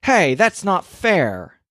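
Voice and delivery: high, slow whiny protest from tickled toes; tickled feet protest. Acted. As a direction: squeal it like toes being tickled. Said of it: "they always say".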